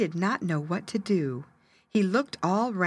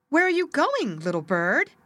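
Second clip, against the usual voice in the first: kind spruce tree; 8 semitones higher, 4 dB louder than usual. Acted. Kind spruce asks bird.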